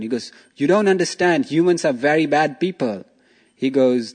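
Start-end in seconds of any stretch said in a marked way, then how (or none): 0.6-3.0 higher, louder, insistent tiger pleading his case; pushy tiger. Acted. Tiger pressing bear to push hunter, raised insistent voice.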